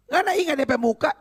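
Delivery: fast, high questioning as the mother; interrogating mother, acted. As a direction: fire off the question like a pressing mum. Mother interrogates her son.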